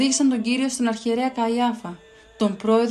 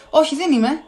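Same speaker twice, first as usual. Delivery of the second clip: a louder, higher snapping denial; growled denial; 6 semitones higher, 7 dB louder than usual. Acted. Peter growls his denial at the questioner, louder. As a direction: growl it back at him. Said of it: "γρύλισε ο Πέτρος".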